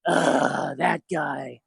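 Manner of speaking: low, weary groan of dismay; disgusted groan. Retold or imitated. Classmates seeing his project on screen, disgusted groan. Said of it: "everyone goes".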